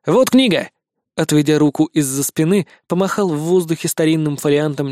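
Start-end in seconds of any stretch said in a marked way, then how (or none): 0.1-0.7 brandish the book; boy's proud cry. Acted. Никитка показывает книгу. (звонко, гордо)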